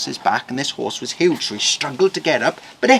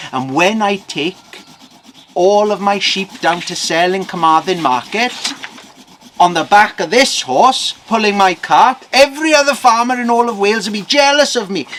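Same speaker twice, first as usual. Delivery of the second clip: higher, louder farmer swelling with pride; excited boast; 6 semitones higher, 6 dB louder than usual. Acted. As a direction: boast it out to the whole market. Farmer boasts of his horse.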